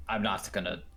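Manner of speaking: lightly voiced pirate dwarf. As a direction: talk it like an old sea dog. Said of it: "can't break out of the pirate voice".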